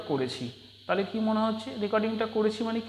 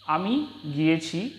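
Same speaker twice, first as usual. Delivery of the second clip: slow, careful আমি গিয়েছি with a rise at the end; slow demo; slower than usual. Shown as a demonstration. Teacher repeating the example for students, slow and deliberate. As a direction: model the phrase slowly for learners. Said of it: "আবার কি?".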